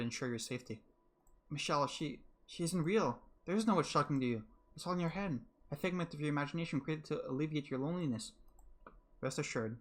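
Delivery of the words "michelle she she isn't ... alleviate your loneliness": put-on higher, urgent girl insisting; desperate Giselle. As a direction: plead that the witch is imaginary. Giselle insists witch isn't real.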